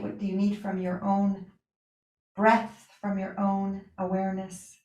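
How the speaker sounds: unhurried yoga teacher voice with long pauses; guided relaxation. Real, not acted. Yoga teacher settling students for Yoga Nidra, guided relaxation. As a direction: ease them into rest, leaving space between phrases.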